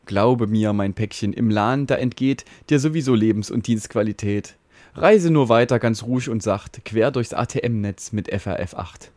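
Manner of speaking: lightly voiced fatherly router, calm and reassuring; a hint of a caring father in a mock ballad; soothing router. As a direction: comfort the frightened little packet in rhyme.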